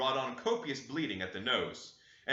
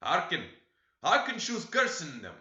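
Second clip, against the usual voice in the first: put-on old servant muttering; 5 semitones higher, 5 dB louder than usual. A narrator's reading. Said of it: "muttered Joseph".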